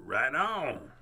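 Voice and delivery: lightly sung-song happy cat; bright cheerful cat, slowing on the last line; a hint of a groovy cat; upbeat Pete. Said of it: "and said".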